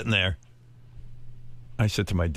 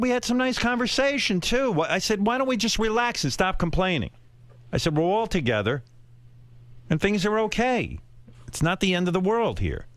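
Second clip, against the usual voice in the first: higher-pitched cheering-up; retold pep talk, pitched up to lift spirits; upbeat; 6 semitones higher than usual. Son coaxing complaining parents to relax, upbeat. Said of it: "I'm trying to be upbeat".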